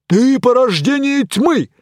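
loud, high pompous accusation; accusing knight. Acted. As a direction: point and denounce.

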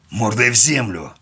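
громкий рявк приказа; рявкнуть приказ на бандита; рявкнул. A narrator's reading. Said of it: "рявкнул я". (герой рявкает приказ лежащему бандиту, громко и резко)

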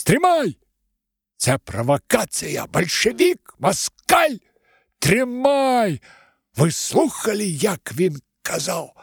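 high, loud spiteful wail; a cracked, tearful man yelling; cracked whiny angry voice. Acted. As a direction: whine it in anger. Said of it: "злобный и плаксивый голос".

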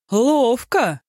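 a bright, high "well done!"; approving exclamation. A narrator's reading. Po Kai praising the drinkers' trick, high approving cry. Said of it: "одобрительно проговорил он".

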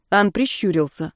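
plain reading voice

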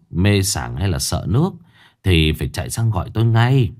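put-on an old village healer giving careful instructions; healer's advice. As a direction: village healer cautioning the family. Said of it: "rồi dặn dò".

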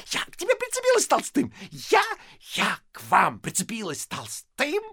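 wife shrieking at husband; indignant shriek. Acted.

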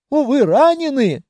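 treasury catching that he's hurt; alarmed realization. Acted. Treasury realizing the spy is wounded, alarmed. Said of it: "спохватилась казна".

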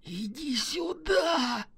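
soft, high, slow call; quiet beckon. Acted. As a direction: call him over in a hush. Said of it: "Тихо подозвал".

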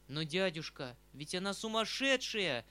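forgetful outcry. Acted. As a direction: blurt it out, forgetting himself. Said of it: "вскричал я, забывшись".

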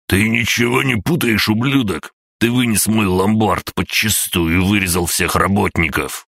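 put-on high, outraged old man shouting; angry old man. A narrator's reading. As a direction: bellow the accusation. (гневный крик старика)

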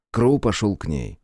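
usual speaking voice

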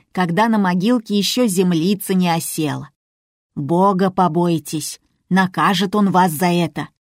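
ordinary delivery, nothing marked

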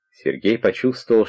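usual speaking voice

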